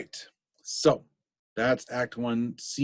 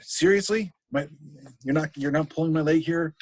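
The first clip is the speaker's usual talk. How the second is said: incredulous Hamlet; 5 semitones higher than usual. Retold or imitated. Hamlet doubts Horatio's news.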